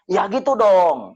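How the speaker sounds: drawn-out mock approval from the widow; widow approving. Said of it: "dia bilang gitu".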